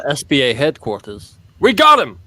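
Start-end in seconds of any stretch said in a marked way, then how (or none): 1.6-2.2 high, loud mock victory shout; triumphant cheer. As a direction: crow it like agents who just caught him. SBA headquarters celebrating the capture.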